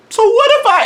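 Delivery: high, hesitant so-what; mock sheepish excuse. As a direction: pitch up like you're testing the waters.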